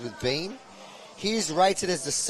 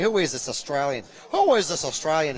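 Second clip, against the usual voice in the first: badly faked American accent, louder on the repeat; attempted American accent; 3 semitones higher, 4 dB louder than usual. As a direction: have a half-hearted go at sounding American. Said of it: "I can't do the American accent".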